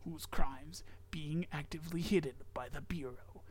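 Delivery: whispered creepy story reading; whispering. Acted. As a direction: hush it like a secret.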